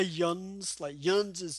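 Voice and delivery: light Tennessee twang on "yuns"; imitated Tennessee dialect. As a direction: quote "yuns" as Tennessee locals say it. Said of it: "I love it when people say".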